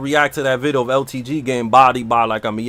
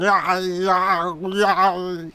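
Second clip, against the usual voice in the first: higher, put-on Irish yeah, yeah; mock Irish accent; 5 semitones higher, much slower than usual. The speaker mimics TMM as a Highlander, mock Irish accent. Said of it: "T M M sound like".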